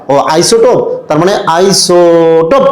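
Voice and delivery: আইসোটোপ said slowly to yourself, stretched with a push on প; muttering to yourself. Pretend. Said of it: "এভাবে নিজে নিজে উচ্চারণ করবা".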